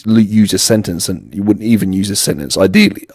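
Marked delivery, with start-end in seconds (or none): 2.6-3.1 real voice break mid-word, jumping up; voice cracking up an octave. Real, not acted. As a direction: voice suddenly cracks high. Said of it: "my voice broke there".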